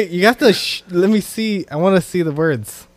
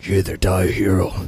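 cowboy voice; 10 semitones lower than usual. Retold or imitated. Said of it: "You sound like a, like a cowboy".

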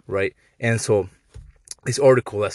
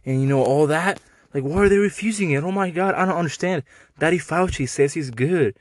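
high, whiny mock voice of a vaccine believer; mocking vaccine fan; 4 semitones higher than usual. Imitating a vaccine supporter to mock them, high and whiny. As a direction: sneer it out in a squeaky sarcastic whine. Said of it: "And they're like".

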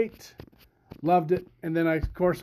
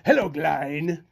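put-on Indian accent; slower than usual. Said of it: "heavy Indian accent".

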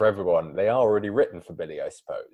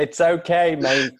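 forgiving voice imitating a rapper; 7 semitones higher, 6 dB louder than usual. Retold or imitated. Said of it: "and he was like".

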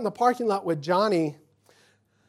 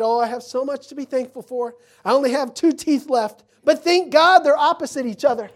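higher, louder retold cheer; thankful old auntie; 7 semitones higher, 8 dB louder than usual. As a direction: play up the auntie's gratitude for the punchline.

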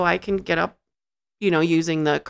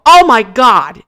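surprised; 4 semitones higher, 11 dB louder, slower than usual. Retold or imitated. Shocked he got ready.

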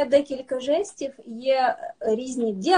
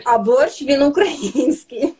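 laughing pride; 5 dB louder, slower than usual. Real, not acted. Playful pride in borscht.

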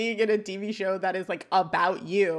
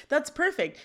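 mildly excited, pitched up at normal volume; 6 semitones higher than usual. Acted. Boy jumps up at girl's answer, mildly excited. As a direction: brighten up as if the answer solves everything. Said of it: "jumps up excited".

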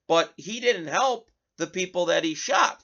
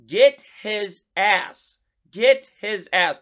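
raised, drawn-out quoted yell; imitating a screamer, louder and higher; retold scream; 3 semitones higher, 5 dB louder, much slower than usual. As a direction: slowly punch out a mock scream. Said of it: "another individual screaming".

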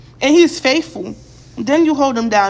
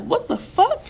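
higher, laughing disbelief; half-laughing shock; incredulous what the fuck; 7 semitones higher than usual. Retold or imitated. Hearing young men bash their dads, laughing disbelief. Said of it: "I'm like".

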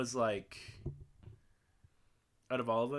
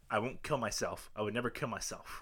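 talking down; 4 semitones lower than usual. Retold or imitated. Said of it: "you have his, like, the way he talks down".

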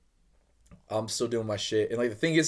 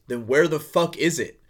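raised, drawn-out angry demand; retold yell; 6 semitones higher, 8 dB louder, slower than usual. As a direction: imitate a chef yelling across the brewery. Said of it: "yelling across the brewery".

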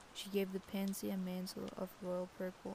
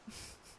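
short, soft real laugh; low, brief chuckle; 10 dB quieter than usual. Real, not acted. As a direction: laugh quietly at what was just read. Laughs at wording in the story.

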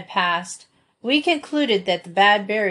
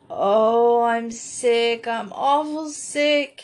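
abject; 3 semitones higher, much slower than usual. Acted. Dan admitting to the children he is sick, abject. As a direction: beg for sympathy, all bravado gone.

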